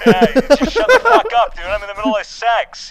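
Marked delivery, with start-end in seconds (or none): 0.1-1.6 gruff annoyed guy on the phone; angry boyfriend voice. Pretend. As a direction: snap at the caller like an interrupted man. Voice effect prank call.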